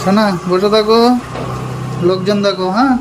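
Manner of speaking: high, gentle cooing. Real, not acted. Telling the baby to sit and watch people, high cooing. Soothing the baby before leaving.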